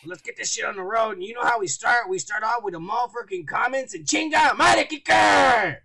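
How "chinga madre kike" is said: loud call across the room; shout. Real, not acted. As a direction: shout his name. Host calling co-host out.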